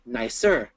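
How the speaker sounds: NICER slowly split as nice-er; teacher's measured two-beat "nicer"; syllable by syllable. Shown as a demonstration. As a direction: sound out "nicer" in two slow beats. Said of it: "two syllables".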